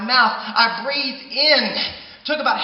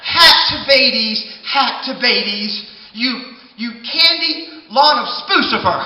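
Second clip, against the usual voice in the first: gibberish yell; 4 dB louder than usual. Acted. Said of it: "I was yelling".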